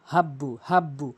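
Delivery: হাব্বু with the ha from mid-throat; throaty ha. Shown as a demonstration. Teacher demonstrating the throat letter to students. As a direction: breathe the ha of হাব্বু from deep in the throat. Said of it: "হাব্বু বলতে হবে হলকের মাঝখান থেকে".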